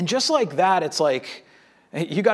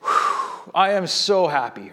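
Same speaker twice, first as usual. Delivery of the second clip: relieved whew; slower than usual. Retold or imitated. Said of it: "Phinehas just goes".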